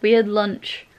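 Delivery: hushed late night voice; whispering. Real, not acted. Whispering late evening vlog.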